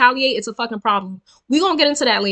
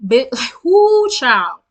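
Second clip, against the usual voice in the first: exasperated laugh; 5 dB louder, much slower than usual. Real, not acted. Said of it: "exasperated outburst".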